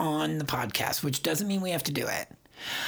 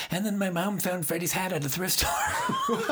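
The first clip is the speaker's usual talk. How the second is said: mock Heather voice; 2 semitones higher than usual. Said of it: "it always ends with".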